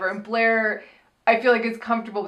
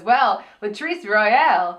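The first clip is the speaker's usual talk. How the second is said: slow grand drawl; slower than usual. Retold or imitated. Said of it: "Monet comes out and says".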